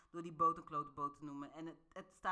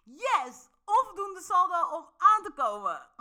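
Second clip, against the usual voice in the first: cheery reframe; 10 semitones higher, 12 dB louder than usual. Retold or imitated.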